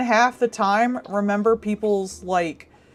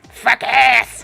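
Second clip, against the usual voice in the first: robot voice; 4 semitones higher, 7 dB louder than usual. Retold or imitated. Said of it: "And the thing goes".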